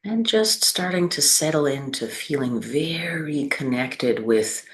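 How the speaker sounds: unhurried guiding voice with long pauses between phrases; measured, spacious meditation delivery; guided meditation. Acted. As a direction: lead them gently through the body, leaving space after each phrase. Leads a seated meditation.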